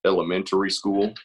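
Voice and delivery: light Texas Southern accent. Shown as a demonstration. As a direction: talk with a Southern twang. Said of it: "I came up with a Southern accent".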